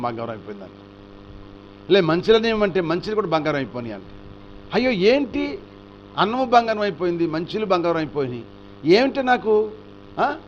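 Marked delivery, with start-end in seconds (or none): 4.7-10.3 higher, startled outburst; king's dismayed shock; alarmed cry. Acted. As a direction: gasp at food turned to gold. King sees rice turn gold.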